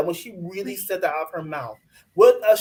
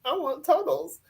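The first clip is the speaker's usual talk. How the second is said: mock demanding; 10 semitones higher, 4 dB louder than usual. Mock-interrogating him via the TV.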